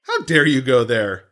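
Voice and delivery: hammed-up offended shouting; mock outrage. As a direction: scold the co-host in fake shock.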